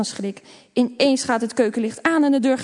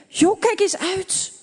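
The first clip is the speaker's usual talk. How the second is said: a touch of fright, higher and slow; hissed warning after a near fall; startled whisper; 9 semitones higher, 3 dB louder, slower than usual. A narrator's reading. Boy startled as sister stumbles, scared hushed warning. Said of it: "fluistert hij verschrikt".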